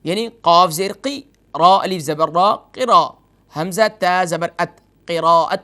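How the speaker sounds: قراءت built up syllable by syllable: قی, را, ات, then joined; spelled out slowly. Shown as a demonstration. Teacher spelling قراءت for TV viewers, slow and deliberate. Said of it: "اور یہ لفظ اس طرح بولا جاتا ہے".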